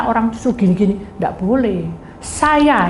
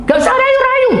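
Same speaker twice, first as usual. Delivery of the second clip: high, loud mock shriek; hammed-up defiant screech; imitated angry rebuff; 5 dB louder than usual. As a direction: refuse the coaxing with a piercing yell. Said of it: "Gitu, saudara, tadinya".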